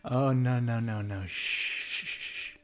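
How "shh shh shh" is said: hushing whisper. Acted. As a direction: silence him like a child. Villain silencing the hero.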